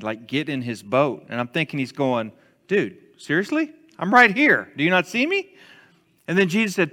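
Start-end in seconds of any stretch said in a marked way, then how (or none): 2.7-5.5 higher-pitched, mildly indignant disbelief; mock incredulous. Peter to Jesus climbing into his boat, mock incredulous.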